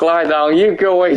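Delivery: mild pet-owner command; firm little order, as to a dog. Pretend. Streamer talks to game wrestler like his dog, mildly commanding. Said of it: "gonna talk to you like my dog".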